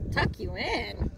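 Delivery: slow, scornful pirate voice; pirate bellow. Acted. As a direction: scoff like a gruff pirate. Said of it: "he bellowed".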